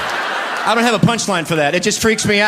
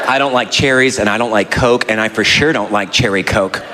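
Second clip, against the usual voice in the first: much lower, indignant scolding; a hint of an affronted wife; offended wife; 8 semitones lower than usual. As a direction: scold him for not knowing her. Wife scolds over cherry Coke.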